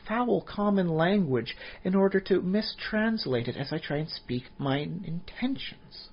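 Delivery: offended ancient wizard, every syllable pronounced; haughty elven wizard. Pretend. Elven wizard scolding the party, in a slow, high, indignant proper voice. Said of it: "sometimes it sounds a little cheesy".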